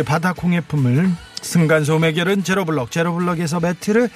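radio announcer listing prizes; sponsor read. Acted. Host reads the show's sponsored gifts to listeners, announcer style.

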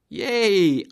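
very high, loud "Yay!"; delighted yelp; excited cheer. Shown as a demonstration. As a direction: burst out with joy. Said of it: "감정을 살리고".

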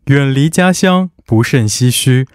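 slow, formal announcer reading; broadcaster voice. Shown as a demonstration. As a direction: read lyrics like a radio host. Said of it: "我要先切换到这个播音腔".

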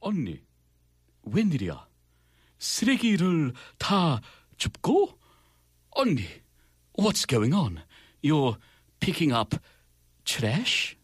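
put-on British-accented dialogue reading, in separate phrases; playful British accent with deliberate pauses. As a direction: act it out in a British accent, pausing between phrases. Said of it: "I'm gonna do a British accent".

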